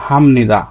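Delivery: হামনিদা with an m before n; nasalised sound change. Shown as a demonstration. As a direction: let হামনিদা flow through m, no p. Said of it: "আপনাকে এভাবে উচ্চারণ করতে হবে". (হামনিদা, প-এর জায়গায় ম)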